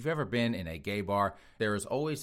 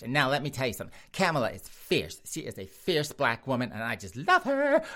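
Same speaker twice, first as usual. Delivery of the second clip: sassy husband arguing. Acted. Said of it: "Chasten's gonna argue with him".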